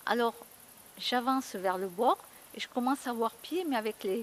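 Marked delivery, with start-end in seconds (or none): none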